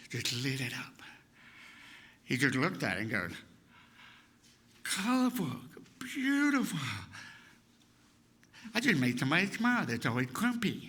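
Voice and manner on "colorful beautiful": high-pitched, marvelling praise; awed admiration. Retold or imitated. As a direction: gasp out each word in wonder. Psychiatrist admiring the child's drawing.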